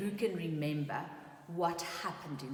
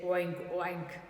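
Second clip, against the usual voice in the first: oink; 3 semitones lower than usual. Acted. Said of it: "and the pig said".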